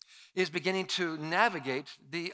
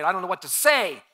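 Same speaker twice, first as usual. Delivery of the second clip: mock fearful worrying; 3 semitones higher, 6 dB louder than usual. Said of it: "You're not the first person that's been afraid".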